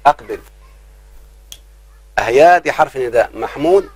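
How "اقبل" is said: slow demo call, stretched; teacher drawing out a vocative call slowly; slow drawn-out call. Shown as a demonstration. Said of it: "تقول يا محمود".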